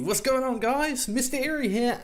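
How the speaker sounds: echoey empty room; roomy echo on the voice; big hall echo. Real, not acted. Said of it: "Why the hell do you sound so echoey?".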